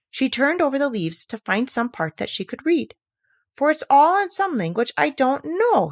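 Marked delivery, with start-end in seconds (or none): 3.5-5.9 puzzled to herself. Acted. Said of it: "she said to herself".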